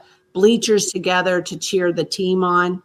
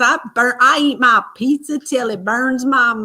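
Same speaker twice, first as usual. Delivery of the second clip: slightly raised mock country twang; imitated country twang; 4 semitones higher than usual. Mom imitating her son's pizza line, country twang. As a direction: mimic his country twang. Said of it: "He goes".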